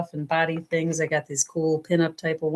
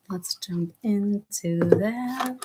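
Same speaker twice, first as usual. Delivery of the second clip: whisper; 3 dB quieter, much slower than usual. Real, not acted. Reader starting a card reading.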